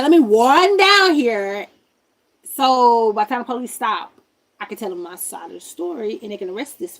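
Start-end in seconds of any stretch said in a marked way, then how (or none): 0.0-1.7 urgent. Retold or imitated. Retold self hurrying to car.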